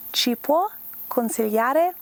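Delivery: slow, deliberate, carefully laid-out, unhurried phrasing. Teaching an italian phrase, saying part of it slowly. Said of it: "If you say it slowly".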